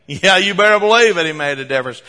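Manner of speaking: loud, high cheering yes from the crowd; crowd's shout. Acted. Preacher voicing the villagers' loud shout of affirmation. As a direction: shout it out like the whole village agreeing. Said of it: "a unanimous shout of affirmation".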